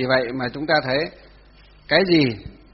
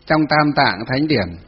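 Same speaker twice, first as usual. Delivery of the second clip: slow, loud dictation with drawn-out syllables; dictating; 5 dB louder, much slower than usual. Real, not acted. Teacher to students writing notes, dictating. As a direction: spell it out slowly for note-takers. Repeats the line for note-takers.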